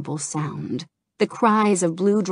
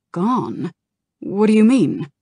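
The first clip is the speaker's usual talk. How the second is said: louder, higher urgent question; alarmed disbelief; 4 semitones higher, 6 dB louder than usual. Acted. Kalik shocked by news of the iris, alarmed. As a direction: demand what he means.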